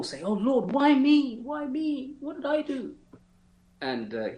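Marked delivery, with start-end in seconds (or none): 0.2-2.9 mock self-pity. Soldier mimics people's self-pity.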